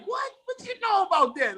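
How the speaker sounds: high, incredulous "what you know about that"; incredulous comeback. Retold or imitated. Answering foreign fans who know go-go, high and incredulous. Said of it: "and I'm like".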